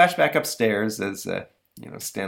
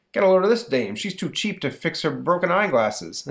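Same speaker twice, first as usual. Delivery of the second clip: higher, catty; sneering gossip; snide dog; 8 semitones higher than usual. Retold or imitated. One dog mocking a lady's glasses, snide. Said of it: "dogs gossiping".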